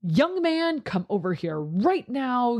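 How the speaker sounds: a hint of a stern parent; lightly mock a parent summoning a child; mock-stern, starting high then dropping; scolding parent. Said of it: "feel like their parent".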